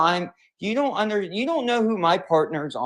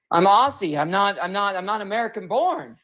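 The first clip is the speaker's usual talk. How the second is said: crying on the phone. Real, not acted. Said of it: "crying like a literal baby".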